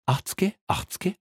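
high, rising sing-song offer; sing-song haggling. Acted. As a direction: coax with a lilting tease. Haggling over a bribe.

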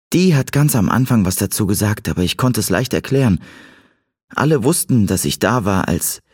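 a hint of a girl's voice, explaining; Cat im Dialog. (leicht angedeutete Mädchenstimme)

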